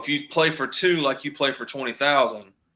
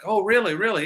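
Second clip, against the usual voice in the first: high, lightly imitated South African accent; retold South African voice, raised and louder; 8 semitones higher, 5 dB louder than usual. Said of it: "he talked with a South African accent".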